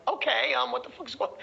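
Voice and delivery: high, puzzled reaction; intrigued prospect. Retold or imitated. Prospect reacting to an unusual greeting, bemused and high. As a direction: answer high, thrown off balance. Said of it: "They're like".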